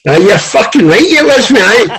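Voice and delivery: high, laughing you're right, mate; laughing admission. Retold or imitated. Laughing as he admits the coach had him. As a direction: concede with a laugh.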